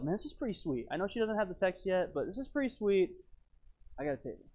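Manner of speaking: softly voiced private thought; murmured, self-satisfied inner monologue; thinking to himself. Dad settling onto the train, pleased with his table, thinking to himself. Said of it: "I think to myself".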